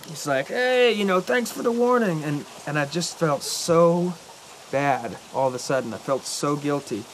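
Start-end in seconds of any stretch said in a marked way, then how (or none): 0.5-2.2 high mock-sarcastic thanks; imitating a sarcastic shout, pitched up; sarcastic yell retold. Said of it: "he yelled at me".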